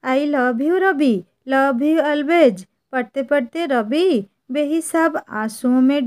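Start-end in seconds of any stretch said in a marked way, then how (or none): 0.1-2.6 a hint of the heroine saying goodbye to Ravi; tender letter ending. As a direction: linger on each word like a last goodbye. Heroine's farewell letter ends.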